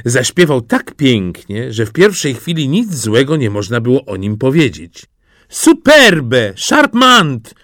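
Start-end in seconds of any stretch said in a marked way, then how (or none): 5.5-7.6 loud, high cries in affected French; gushing exclamations. A narrator's reading. Court ladies praising the nightingale in French, exclaiming. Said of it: "wykrzykiwały damy".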